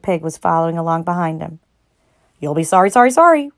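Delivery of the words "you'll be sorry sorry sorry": rising high warning call. A narrator's reading. Goose calling a warning to departing Wilbur. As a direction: call after him. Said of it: "called the goose".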